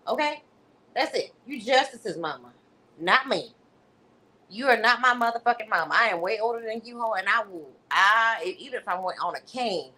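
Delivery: hammed-up scolding from an old lady; mock anger translation. Speaker voicing Valerie threatening Tiffany with a cane, mock rage. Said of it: "I'm Valerie's anger translator".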